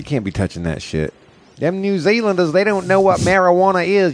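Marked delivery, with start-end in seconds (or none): 1.6-4.1 put-on New Zealand accent. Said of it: "working on my New Zealand accent".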